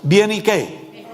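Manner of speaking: drawn out, slow Bien, ¿y qué?; slow call phrase. Shown as a demonstration. Pastor leading a slogan, slow drawn-out chant. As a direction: stretch Bien, ¿y qué? slowly for the congregation. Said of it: "se acuerdan de otra palabrita".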